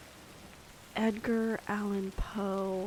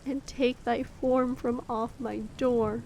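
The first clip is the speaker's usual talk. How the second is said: poem reading. Acted. Reading The Raven aloud.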